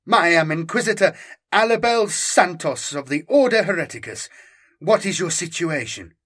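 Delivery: lightly voiced imperious Inquisitor; stern inquisitor. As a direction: announce yourself with authority.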